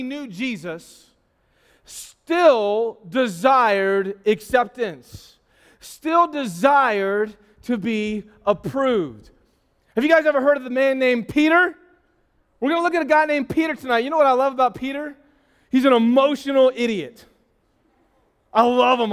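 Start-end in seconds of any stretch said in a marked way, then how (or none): 1.9-9.3 drawn out very slowly; deliberate sermon emphasis; slow preaching stress. Real, not acted. 12.6-17.2 excited preaching. Real, not acted.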